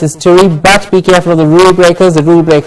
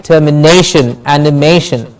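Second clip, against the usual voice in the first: "termination, animation" with weight on NA and MA; stress before -tion; 2 semitones lower than usual. Shown as a demonstration. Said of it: "we stress the syllable before shin".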